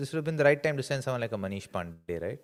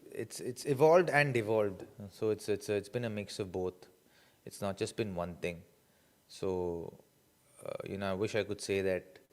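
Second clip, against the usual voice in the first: stuffy nose, short of breath; blocked nose; 3 semitones lower, 3 dB quieter than usual. Real, not acted. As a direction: talk through a blocked nose, running out of air. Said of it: "my nose is blocked and I'm not able to take in a lot of breath".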